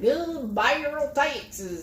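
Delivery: slow drawled Texas twang, mildly imitated; thick Texas twang. Host imitating a twangy Texas caller. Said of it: "they have such a twang".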